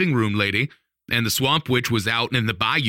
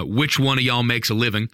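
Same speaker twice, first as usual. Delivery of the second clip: put-on understandable Southern accent. The speaker asks the couple who earns, understandable Southern accent. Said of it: "said that in an understandable accent".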